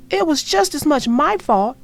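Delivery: loud, high eager confession; shouting. Acted. Sister shouting over Brother to Mama. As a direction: shout to share the blame. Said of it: "shouted Sister".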